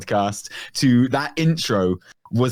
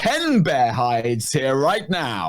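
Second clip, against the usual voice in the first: slow, cheerful quest giver voice; game NPC quest giver; 3 semitones higher, slower than usual. Retold or imitated. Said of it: "the Garrett N P C".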